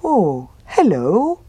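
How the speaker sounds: slow, cheerful bear greeting; happy bear. A narrator's reading. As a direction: greet the fox warmly and slowly. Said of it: "said the bear happily".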